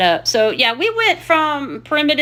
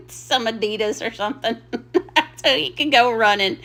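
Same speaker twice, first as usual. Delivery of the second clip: giggling out the joke; laughing. Real, not acted. Vlogger joking about a jogging suit, giggling. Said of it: "I'm still dying laughing".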